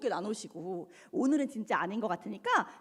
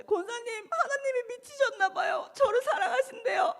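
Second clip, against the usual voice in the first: laughing distraught blurt; 11 semitones higher than usual. Retold or imitated. Distraught drunk girl blurting to deacon.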